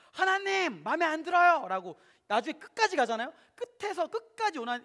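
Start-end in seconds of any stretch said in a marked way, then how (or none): 0.1-1.7 higher, louder complaint to God; Jonah shouting. Retold or imitated. Jonah complaining to God, higher and louder. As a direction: protest to God like a sulking prophet. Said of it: "소리를 지릅니다".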